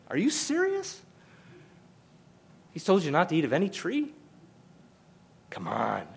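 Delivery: very high, squeaky incredulous voice; exaggerated disbelief. Shown as a demonstration. Serpent scoffs at the command, very high mock shock. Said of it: "That's what we'd say today".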